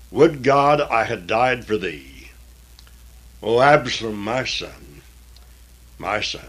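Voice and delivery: grieving lament. Acted. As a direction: lament for the lost son, letting it die down. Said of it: "and wept".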